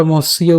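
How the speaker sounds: "মস্য" with a plain hissed s, mos-iyo; dental s. Shown as a demonstration. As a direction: say "মস্য" with s, not sh. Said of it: "দন্তাস্ব থাকার কারণে".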